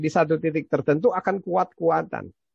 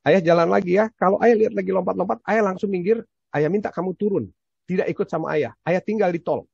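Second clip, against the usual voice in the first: put-on stern warning to child; 4 semitones higher than usual. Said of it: "Saya katakan". (ayah memperingatkan anak yang lompat-lompat, tegas dan keras)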